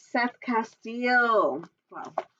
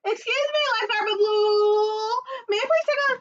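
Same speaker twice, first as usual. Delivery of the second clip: Octorino voice; 8 semitones higher than usual. Acted. Octorino asks the lifeguard, high and eager. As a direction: ask sweetly, high.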